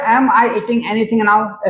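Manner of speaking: slow model sentence. Shown as a demonstration. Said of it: "teacher models the question slowly".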